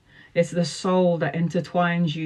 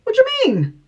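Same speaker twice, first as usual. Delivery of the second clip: much higher, louder mock wail; wailing client; 5 dB louder than usual. Tarot reader mimicking a crushed client's high, wailing protest. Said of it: "And I'm like".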